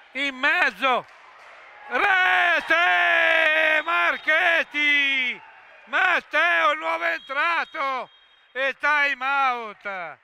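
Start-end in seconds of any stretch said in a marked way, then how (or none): 1.9-8.1 drawn-out shouted goal call. Real, not acted. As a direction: stretch the scorer's name. Goal called out.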